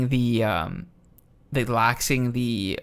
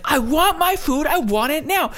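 freaking-out Karen; 13 semitones higher than usual. Retold or imitated. Woman mocking a customer demanding her food, high whiny voice. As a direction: imitate a spoiled customer's whine. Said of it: "this lady's freaking out".

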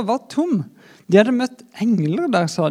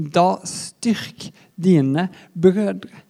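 very slow and weighty; much slower than usual. Acted. Recalled words of Jesus.

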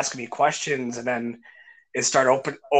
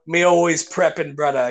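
lightly imitated Jamaican man; casual mock Jamaican accent; 2 semitones higher than usual. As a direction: answer in a put-on Jamaican accent. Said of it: "Jamaican guy".

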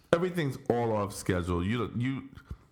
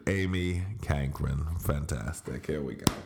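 unenthused; 5 semitones lower than usual. Real, not acted. Host introducing his wife with no enthusiasm. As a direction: say it like you don't mean it. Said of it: "You don't sound like you believe it today".

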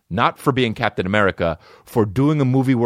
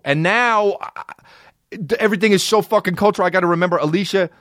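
pitched way up, fast, fed-up griping; exasperated rant; 8 semitones higher than usual. Real, not acted. Complaining to listeners about learning names, exasperated high rant. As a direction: throw up your hands over all these names.

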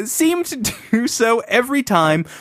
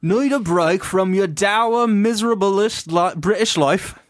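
put-on Welsh accent; 3 semitones higher, slower than usual. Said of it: "a Walish accent".

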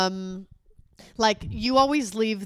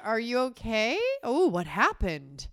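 fake concern; slower than usual. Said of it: "I was so covert with you".

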